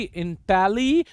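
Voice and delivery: "इंटेली" as the first part, its last vowel held; syllable demo. Shown as a demonstration. Teacher shows students the first tongue twist, "इंटेली" drawn out. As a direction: stretch the end of "इंटेली". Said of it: "आपकी टंग दो बार twist होगी".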